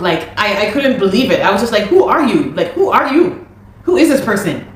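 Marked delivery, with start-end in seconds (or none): 1.8-4.7 shocked disbelief. Retold or imitated. Shocked at his yelling.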